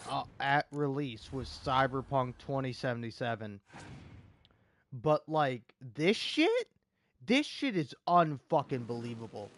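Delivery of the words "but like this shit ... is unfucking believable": real indignant shout on this shit; angry outburst. Real, not acted. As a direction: blurt it out in a furious squeak. Furious gamer ranting at game.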